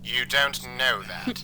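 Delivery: slow, worried whisper; tense whisper. Acted. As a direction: breathe it out low and unvoiced. Worried reply to partner.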